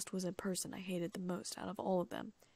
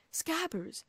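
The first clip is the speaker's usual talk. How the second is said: stunned disbelief; 9 semitones higher than usual. A narrator's reading. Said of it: "Ron said in a blank way".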